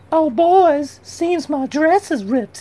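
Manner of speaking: very high, loud damsel-in-distress voice. Told to flash some leg as a distraction, damsel in distress voice. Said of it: "Make believe you're a damsel in distress".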